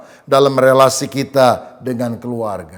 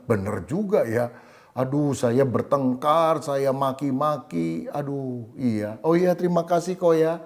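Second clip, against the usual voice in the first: stunned, remorseful husband; 6 dB quieter than usual. Retold or imitated. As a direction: let it sink in quietly, ashamed. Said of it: "Tersentak kaget".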